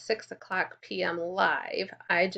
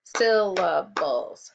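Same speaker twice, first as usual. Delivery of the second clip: slow, louder, each syllable clear; 4 dB louder, much slower than usual. Shown as a demonstration. Teacher says the word syllable by syllable, slowly. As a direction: clap it out as you say it. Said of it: "clap out the syllables".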